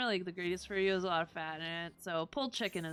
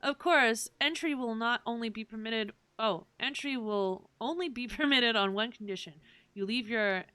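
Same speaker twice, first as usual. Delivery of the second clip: louder, formal guard voice; stern gatekeeper voice; 5 dB louder than usual. Acted. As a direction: lay down the rules firmly. Reads NPC dialogue aloud.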